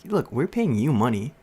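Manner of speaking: going off. Retold or imitated. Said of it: "she basically just went off on my teacher".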